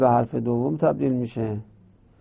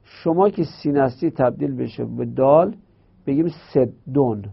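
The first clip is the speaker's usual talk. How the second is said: lightly voiced dal refusing; a hint of dal pushing back; voicing the letter dal. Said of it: "دال میگه نه". (دال با لحنی کمی مخالف)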